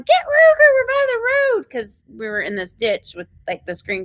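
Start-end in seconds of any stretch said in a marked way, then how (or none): 0.0-1.7 high urgent yell to grab the dog; yelling to the son to catch the dog near the road. Retold or imitated. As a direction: call out over the chaos. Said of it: "So I'm yelling".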